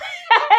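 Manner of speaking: a sudden high burst of laughter. Real, not acted. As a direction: laugh out at the insult. Reaction to street insult.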